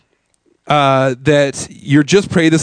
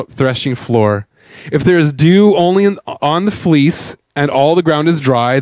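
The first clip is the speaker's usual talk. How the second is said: slower reading. Real, not acted. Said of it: "read this a little slower for you".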